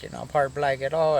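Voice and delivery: imitated doubting inmate. Imitates other inmate questioning him.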